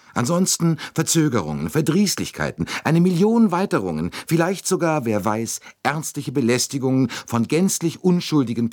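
high-pitched, mounting list of troubles; agitated plea, climbing high; urgent persuasion. A narrator's reading. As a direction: pile up the dire consequences, voice pitched high. Bouc urgently lists looming troubles.

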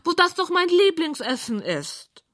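high squeaky protest; indignant pig. A narrator's reading. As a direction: protest in an affronted piggy squeal. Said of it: "sagt Rosamunda entrüstet".

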